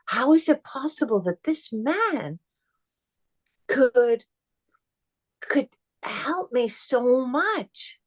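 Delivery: high, halting, tearful wonder; moved to tears. Real, not acted. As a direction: choke up in awe, pausing between words. Moved, in awe of her healer.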